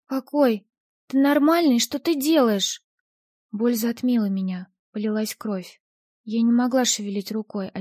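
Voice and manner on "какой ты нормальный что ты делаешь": shocked panic. Acted. Heroine cut with a blade.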